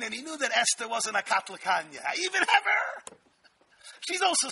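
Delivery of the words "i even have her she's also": boastful Haman. Retold or imitated. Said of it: "What's his first words to Zeresh?".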